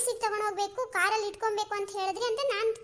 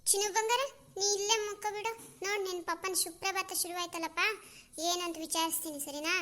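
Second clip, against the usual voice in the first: soft, lower, coaxing mother's voice; tender to child; 3 semitones lower, 5 dB quieter than usual. Acted. Mother tells her little darling she will check on papa, tender. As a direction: soothe the little one, settling softer as you go.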